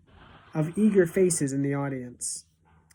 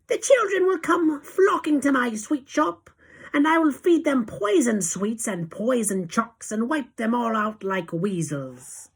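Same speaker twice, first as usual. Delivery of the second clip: excited shout; 8 semitones higher, 5 dB louder than usual. A narrator's reading. Foolish witch boasting about her shop, excited shout. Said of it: "leapt to her feet and shouted".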